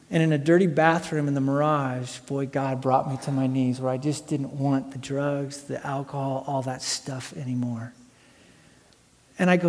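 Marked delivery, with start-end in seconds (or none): 0.1-7.9 low, hushed confession, sinking softer; solemn testimony. Real, not acted. Preacher recalling God bringing him to his knees, hushed and solemn. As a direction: let it drop low and quiet, sincerely.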